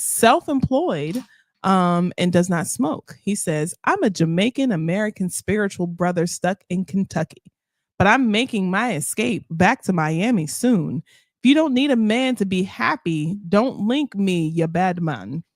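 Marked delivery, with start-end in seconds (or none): 3.8-15.4 reading in a light Jamaican patois; a hint of Jamaican patois, read aloud. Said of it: "Speaking in patois".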